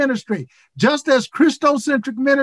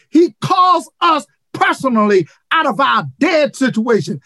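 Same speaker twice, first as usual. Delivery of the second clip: fervent preacher building up; preaching at full force; 3 semitones higher than usual. Real, not acted. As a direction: drive the point home to the congregation.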